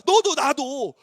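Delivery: ordinary talk, nothing marked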